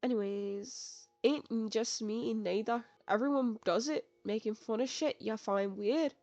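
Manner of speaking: put-on shaky-skilled try at a British accent; badly faked British accent, drawn out at the start; attempted British accent. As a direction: have a go at British and miss. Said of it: "I can't do a British accent".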